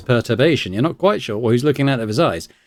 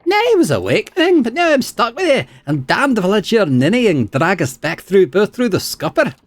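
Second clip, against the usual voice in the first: much higher, defiant sailor-spirit voice; 10 semitones higher, 3 dB louder than usual. Acted. Spirit argues with Aloth, much higher and defiant. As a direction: snap back at the host. Isilmir voice.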